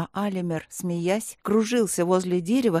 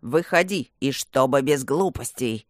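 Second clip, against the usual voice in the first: bass smoker's voice; 5 semitones lower than usual. A narrator's reading. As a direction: growl it out like a heavy smoker. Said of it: "басовитым прокуренным голосом".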